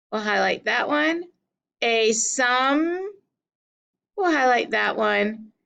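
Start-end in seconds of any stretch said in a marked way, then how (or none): 1.8-3.1 "A sum" with SUM held long; second syllable stressed. Shown as a demonstration. Teacher marking stresses, drawn-out "sum". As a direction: lean on "sum" in "A sum". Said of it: "highlight the one we're going to stress".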